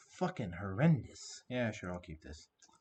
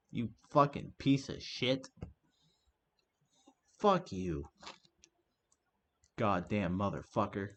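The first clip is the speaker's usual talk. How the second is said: seething curses; slower than usual. Real, not acted. Streamer still cursing the opponent, slow seething rage. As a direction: drag each insult out slowly as the rage fades.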